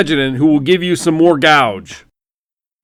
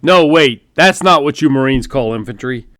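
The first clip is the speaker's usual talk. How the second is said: booming general; 3 semitones higher, 5 dB louder than usual. Acted. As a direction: boom it down the phone line like a hearty general. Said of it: "He continued booming into the phone".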